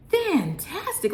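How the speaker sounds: thrilled, pitch soaring on Fantastic; squealing delight. Real, not acted. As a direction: squeal Fantastic up high with a lift at the end. Raves about pizza taste.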